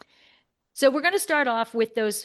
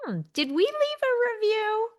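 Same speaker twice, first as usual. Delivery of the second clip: high musing voice; 13 semitones higher than usual. Retold or imitated. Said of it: "And then I was like".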